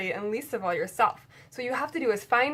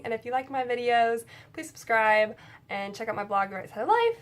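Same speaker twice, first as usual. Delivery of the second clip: infomercial voice. Pretend. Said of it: "Now I sound like an infomercial".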